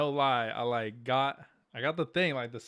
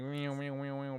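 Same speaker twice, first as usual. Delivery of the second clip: imitating clippers; 8 dB quieter than usual. Shown as a demonstration. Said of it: "It's like".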